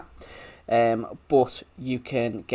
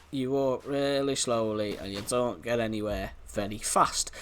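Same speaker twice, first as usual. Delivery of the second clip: broad Yorkshire vowels slipping in; Yorkshire accent; 4 dB quieter than usual. Real, not acted. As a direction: go all Yorkshire, as if from Leeds. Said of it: "I don't know why I went all Yorkshire".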